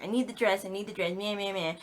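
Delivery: whiny, quick self-mocking nag; mock freak-out. Daughter fussing about a dress, mock freak-out. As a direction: mimic your own petty fussing. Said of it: "freaking out about the dress".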